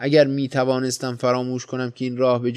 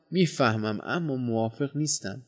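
soft, composed disagreement; calm; 6 dB quieter than usual. A narrator's reading. Visitor disagrees with his companion, calm and softened. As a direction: disagree gently, keeping the volume down. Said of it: "با آرامی گفتم".

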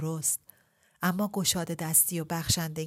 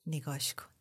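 soft unvoiced whisper to himself; 2 semitones lower, 5 dB quieter than usual. Ebrahim gazing at Shahrbanu, whispering. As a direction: breathe it out, lovestruck. Lover gazing, tender aside.

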